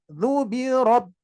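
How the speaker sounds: slow "du birob" with the b cut off silent; "du birob" with a silent held b; closed ba. Shown as a demonstration. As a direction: stop the b in "birob" dead. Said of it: "Hilang, baru bil fa".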